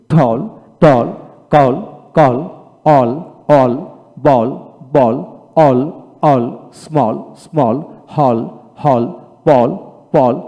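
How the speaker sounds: each word from ঠল to সল্ট said alone with one open vowel; teacher's word drill, every word like বল with the same open vowel; single-pronunciation drill. Shown as a demonstration. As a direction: model কল, বল, মল twice each, pausing between. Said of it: "single উচ্চারণ পড়াবেন, যেমন".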